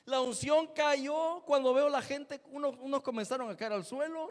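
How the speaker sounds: fervent telling. Real, not acted. Telling the outpouring with fervour.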